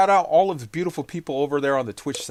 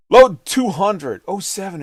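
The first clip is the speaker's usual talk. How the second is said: booming callout; 2 semitones higher, 13 dB louder than usual. Real, not acted. Calling out a chat name.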